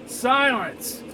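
high-pitched furious yell; screamed. Acted. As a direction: scream him down. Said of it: "he screamed".

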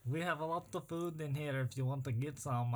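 lightly faked Russian accent; attempted Russian accent. Friend's dad offers food at the car, lightly attempted Russian accent. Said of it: "I don't know how to do a Russian voice".

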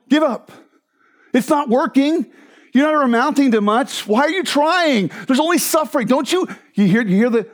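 a hint of a sneering tempter; demonic voice. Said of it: "I do a good impersonation of demonic voices".

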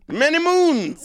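high mock voice. Very high, slow, far.

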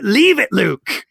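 high, slow comic scolding; mock exasperated pleading. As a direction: beg him to drop it, hammed up. Mock pleading with addicted Luke.

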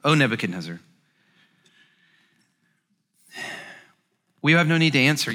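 calm, courteous address to the king; gently respectful "Oh, Nebuchadnezzar". Shown as a demonstration. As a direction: honour the king while refusing him. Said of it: "They're respectful".

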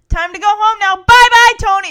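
loud, high mock kid yell; imitated yelling. Three-year-old rudely sending baby Tony home, imitated yelling. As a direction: yell it high, peaking on bye-bye. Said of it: "It's just yelling".

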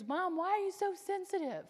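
a whiny mock complaint at mom; snippy to mom.

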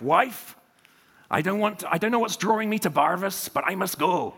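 schoolmaster's lightly acted accent; lilting attempt at a Hebrides accent; put-on accent. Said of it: "Okay, I'll leave the accent".

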